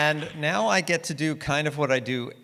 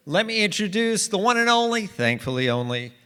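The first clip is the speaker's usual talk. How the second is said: high-pitched stage introduction, slowing on the name; announcer's introduction; 6 semitones higher than usual. Real, not acted. Host introduces the one and only guest to the crowd, announcer's introduction.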